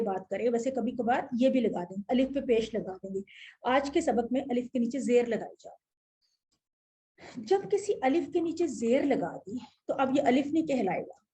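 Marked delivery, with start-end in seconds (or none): 3.7-7.4 slow dictation. Shown as a demonstration.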